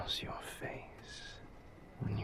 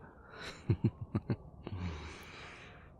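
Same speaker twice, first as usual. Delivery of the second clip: breathy little run of laughter. Acted. Amused lover's chuckle.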